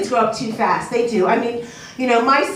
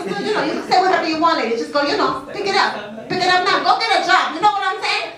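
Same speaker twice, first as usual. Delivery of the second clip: put-on higher, fast sassy accent; Latina accent; 6 semitones higher than usual. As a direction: boss the man around with attitude. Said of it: "a hard accent to keep up all day".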